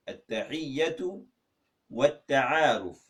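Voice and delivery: At-Tahiyyatu rising, pause, Wat-Ta'aruf slow and falling; split in two. Shown as a demonstration. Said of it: "how do you say greeting and introduction".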